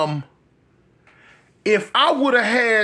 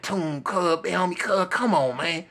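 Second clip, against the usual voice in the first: softer, coaxing plea; 3 semitones lower, 5 dB quieter than usual. Retold or imitated. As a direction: coax him gently and quietly. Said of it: "He was like".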